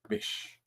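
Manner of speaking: bish squeaked very high and very soft, with no t sound; a tiny, breathy-high bish without the t; squeaky bish. Shown as a demonstration. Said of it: "Yes, call her bish".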